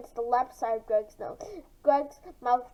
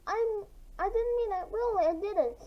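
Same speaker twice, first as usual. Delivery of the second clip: high, panicked sorry; squealing apology; 8 semitones higher than usual. Acted. Mara squealing an apology to Greg, high and panicked. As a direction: plead that it was an accident. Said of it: "Mara squealed out".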